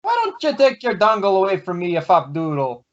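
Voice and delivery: put-on a loose, half-hearted Irish accent that slips; mock Irish brogue, hammed up but barely there. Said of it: "you have to say it in an Irish accent".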